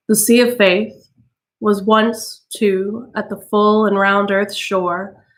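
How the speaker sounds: measured, solemn recitation; poem reading. A narrator's reading. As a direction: read the poem gravely, savoring lines. Reads Dover Beach.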